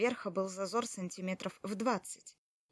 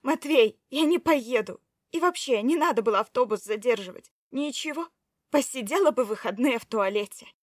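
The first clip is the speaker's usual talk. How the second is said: loud, biting sarcasm; angry wife mocking her husband's concern; sarcastic; 3 semitones higher, 9 dB louder than usual. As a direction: needle him with scorn. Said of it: "В её голосе так и слышался сарказм".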